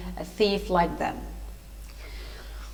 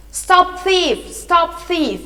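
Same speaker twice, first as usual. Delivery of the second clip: high, raised cry of alarm; shouted alarm; 7 semitones higher, 5 dB louder, much slower than usual. A narrator's reading. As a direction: call out to stop a fleeing thief. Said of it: "the gentleman shouted".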